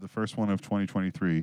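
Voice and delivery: plain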